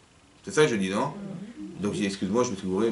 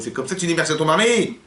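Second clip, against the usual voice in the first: mock angry husband; 5 semitones higher than usual. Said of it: "il va se mettre en colère contre elle".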